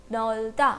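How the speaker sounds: नॉल्ता split as low नॉल, then ता; pronunciation demo. Shown as a demonstration. Teacher answers how the word is pronounced, sounding out नॉल्ता by syllable. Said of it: "word का pronunciation क्या हुआ".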